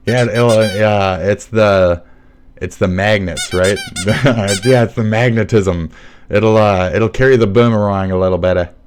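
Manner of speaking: loud, badly faked Australian accent; terrible Australian accent. Explaining the boomerang magnetism, in a terrible Australian accent. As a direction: attempt an Australian accent and miss. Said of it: "That was a terrible accent".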